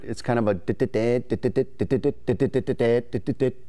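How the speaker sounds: quick voiced dit dit dit; Morse code dits. Shown as a demonstration. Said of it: "the feeder call is more of a Morse code type of sound".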